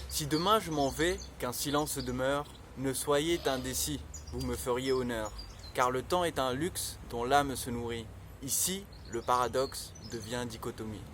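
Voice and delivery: measured poem reading, slightly subdued; poem recitation. Acted. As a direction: recite the verse line by line, gently lowering. Recites own short poem.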